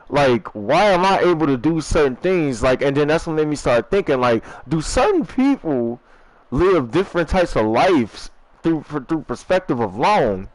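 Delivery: muffled, talking round a cigarette; cigarette in mouth. Real, not acted. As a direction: speak with a cigarette between the lips. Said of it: "Sorry, I got the cigarette in my mouth. That's why I sound muffled".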